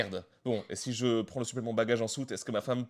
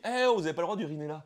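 high, loud, quick busybody voice; hammed-up scolding passerby; mock official scolding; 7 semitones higher, 5 dB louder, faster than usual. Parody of a passerby telling someone off, high and loud. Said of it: "quelqu'un qui arrive qui dit".

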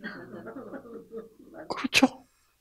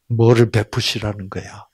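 ordinary delivery

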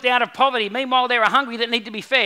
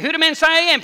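animated question; 6 semitones higher, 7 dB louder, faster than usual. Retold or imitated. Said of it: "Peter's there going".

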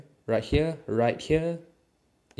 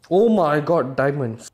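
higher and louder in delight at the find; excited; 4 semitones higher, 9 dB louder than usual. Real, not acted. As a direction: gasp out the discovery, thrilled. Spots diamonds in the mine.

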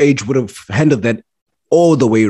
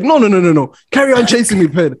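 put-on high, pleading young woman voice; mock young woman; 8 semitones higher than usual. Mocking young women who want chasing, a high whiny plea. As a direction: whine it like a needy girl. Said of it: "then they're like".

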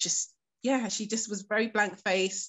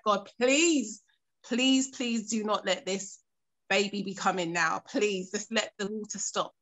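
pleading to God, raised and urgent; desperate prayer; slower than usual. Retold or imitated. Alone on the floor, a woman prays desperately to God.

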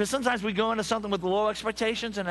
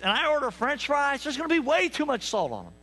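preaching shout; 7 semitones higher than usual. Real, not acted. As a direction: stretch out I expect and holler it to the pews. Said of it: "preaching shout".

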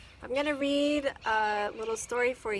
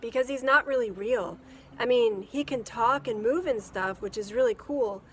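put-on boy voice; 8 dB louder than usual. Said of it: "Matt said".

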